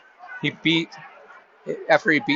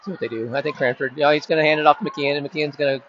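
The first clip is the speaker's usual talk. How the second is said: live sports call, running commentary pace; play-by-play. Acted. Announcer calling the game for listeners, live play-by-play. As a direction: narrate each play as it unfolds.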